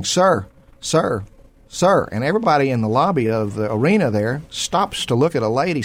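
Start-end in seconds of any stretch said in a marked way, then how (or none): 0.0-2.1 half-acted shout from far off; mild retold yell. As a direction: call across the lobby, relaying her yell. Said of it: "She's yelling".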